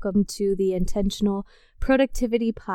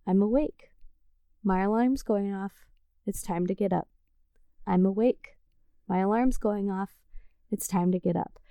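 calm self-talk; 5 dB quieter than usual. Shown as a demonstration. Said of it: "Just simply saying".

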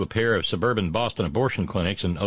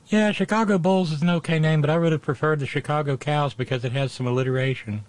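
mock Slovenian accent; 7 semitones higher than usual. Accent voice continues.

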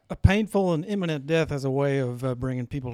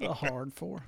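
laughing repeat; 7 dB quieter, slower than usual. Real, not acted. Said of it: "work on that country accent".

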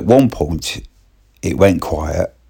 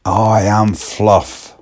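slow, deliberate I am Fluff; slow odd declaration; 4 semitones higher, much slower than usual. Retold or imitated. Young lad announcing himself as Fluff, slow and deadpan. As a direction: say it slowly and solemnly. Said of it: "seven times".

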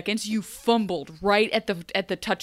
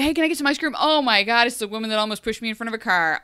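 higher, loud, bubbly bestie voice; hammed-up casual Emma; 4 semitones higher, 8 dB louder than usual. Emma cheerily greeting the woman who almost killed her, loud and bubbly. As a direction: gush like meeting an old friend.

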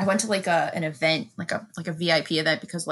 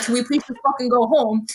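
higher mock pleading; retold exasperated plea; 6 semitones higher, 4 dB louder than usual. Kid begging to leave the beach, mock exasperated. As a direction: re-enact a fed-up kid's plea.

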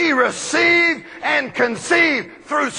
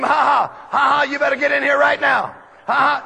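put-on calling the child. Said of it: "She named him".

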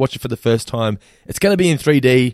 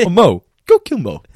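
higher, louder, slower character shout; mock Homer yell; 8 semitones higher, 6 dB louder, slower than usual. Quoting a cartoon dad, loud slow shout. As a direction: bellow it slowly like an angry cartoon dad.

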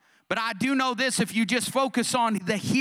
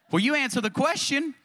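higher-pitched mock protest; defensive retort; 5 semitones higher than usual. Wife answers her shocked husband, defensive retort. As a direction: throw it back higher, playing the wife defending herself.

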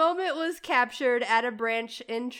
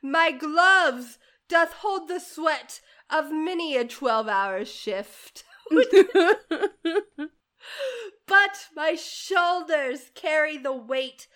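put-on British accent. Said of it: "How's my accent?".

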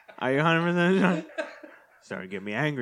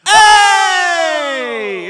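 sudden loud yell of protest; loud playful shout; excited shout; 13 semitones higher, 15 dB louder than usual. Real, not acted. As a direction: bark it out to grab the turn. Shouts to claim his turn.

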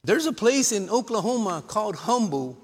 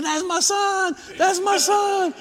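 high, loud imitation of a yelling dad; mock bleacher shouting; proud parent yelling; 13 semitones higher, 5 dB louder, slower than usual. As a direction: yell it out, thrilled for your boy. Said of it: "He's yelling".

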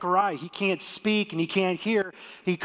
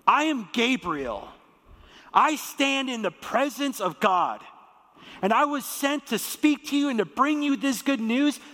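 higher, building, commanding angel; booming angel Gabriel; 3 semitones higher than usual. Shown as a demonstration. Angel Gabriel rebuking doubting Zechariah, booming and stern. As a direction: thunder it like an angry messenger of God. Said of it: "how did he say this?".

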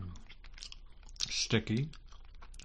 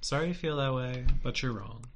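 mock apology; 5 dB quieter than usual.

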